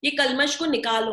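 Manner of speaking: a hint of a stern guru; lightly firm order to throw out the impurity; mildly stern command. Krishna tells Arjuna to remove his impurity, lightly stern. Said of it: "भगवान थोड़े कठोर होके अर्जुन को बोल रहे हैं".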